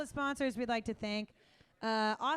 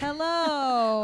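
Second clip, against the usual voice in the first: stuffy weather lady voice; 4 semitones higher, 10 dB louder than usual. Acted. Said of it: "That's my stuffy weather lady voice".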